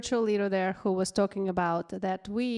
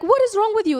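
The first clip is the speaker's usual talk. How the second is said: pitched-up, loud outraged cry; higher mock outrage; 13 semitones higher, 9 dB louder, faster than usual. Retelling her call to a friend, high and loud indignation. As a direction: really let the outrage fly this time. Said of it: "I was like".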